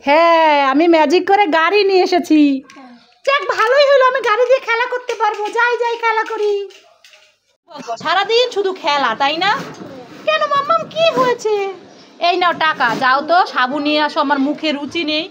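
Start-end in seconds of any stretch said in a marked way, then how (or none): 3.3-6.5 put-on higher, bright-eyed kid voice; eager child character. Mother voicing a toy child delighted about the car, higher. 10.3-11.6 put-on higher-pitched pouty kid voice; sulky child character. Mother voicing a toy child who sulks off, higher pouty voice.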